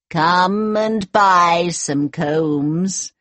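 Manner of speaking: put-on slow disguised old peddler woman; evil queen. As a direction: lure her in with a slow, sly sales call. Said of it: "she cried".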